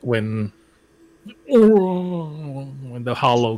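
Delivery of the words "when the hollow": stretched out very slowly, mock-spooky; eerie drawn-out delivery. Player recalling when the hollow comes, eerie and drawn out. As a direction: draw it out like a playful ghostly wail.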